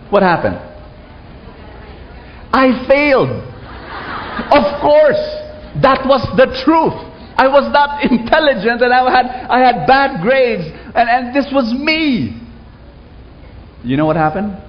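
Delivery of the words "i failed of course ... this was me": strained confession. Real, not acted. Confessing failure, high and strained.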